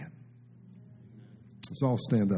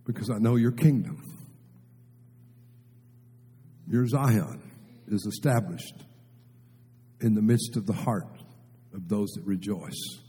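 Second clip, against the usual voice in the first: soft, hushed prayer to the Lord; murmured heartfelt prayer; quiet prayer; 2 semitones lower, 4 dB quieter than usual. Shown as a demonstration.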